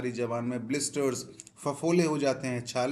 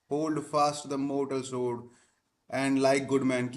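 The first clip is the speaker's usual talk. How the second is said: very slow reading; much slower than usual. Shown as a demonstration. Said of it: "teacher reads text slowly".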